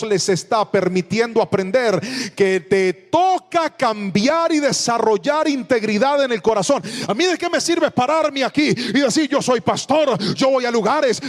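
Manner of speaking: preaching at full force. Acted. Pastor exhorting the congregation to change, full-force preaching.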